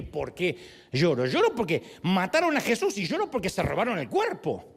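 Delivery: mildly offended retort. Acted. Mary answering the angel's question, offended. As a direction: throw the question back, mildly affronted. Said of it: "creo que se siente ofendida".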